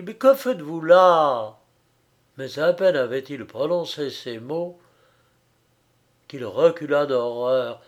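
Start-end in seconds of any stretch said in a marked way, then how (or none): 0.0-1.6 louder, anxious questioning; alarmed question. A narrator's reading. Frédéric finds her on the floor, alarmed question. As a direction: press her for an answer, alarmed. Questioning motionless silent woman.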